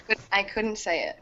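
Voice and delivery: whispered confession. Real, not acted. Whispering her secret to the group, unvoiced hush. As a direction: breathe it out, barely voiced.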